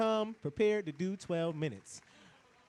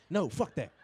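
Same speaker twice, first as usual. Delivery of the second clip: a hint of a cranky old granddad; grumpy old granddad; 5 semitones lower than usual. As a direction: lower gruff mutter of a grumbling grandpa. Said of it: "granddad scene".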